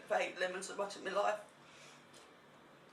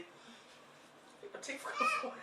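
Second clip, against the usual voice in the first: laughing; much slower than usual. Real, not acted. Laughing through sour mouth.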